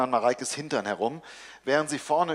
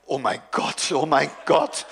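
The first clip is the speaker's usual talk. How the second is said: excited cry. Acted. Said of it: "ruft sofort".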